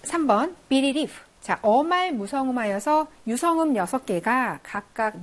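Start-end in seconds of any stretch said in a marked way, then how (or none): 0.7-1.1 비리리프 ending in a voiceless f; final F sound. Shown as a demonstration. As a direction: end 비리리프 on f, not v. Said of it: "왜 대응하는 무성음은 F예요".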